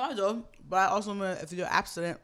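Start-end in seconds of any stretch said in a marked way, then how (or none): 1.4-2.2 talking through a mouthful of ice; mouth full. Real, not acted. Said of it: "I'm sorry, I'm eating ice".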